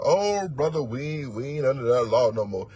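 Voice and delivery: lightly voiced whiny excuse-maker; mocking a Christian. Preacher mocking a brother who dodges Torah, mock whine. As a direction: brush off the law in a lightly mocking voice. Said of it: "now you sound like a Christian".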